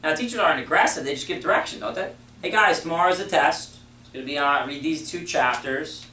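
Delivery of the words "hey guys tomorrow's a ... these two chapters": assertive directions. Shown as a demonstration. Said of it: "Was there any question mark".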